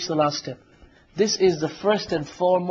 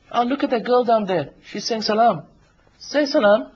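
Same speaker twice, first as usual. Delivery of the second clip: higher, coaxing devil egging you on; tempting devil voice; 4 semitones higher than usual. Acted. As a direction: sell the temptation like a sly shaitan. Shaitan whispering temptation to listener.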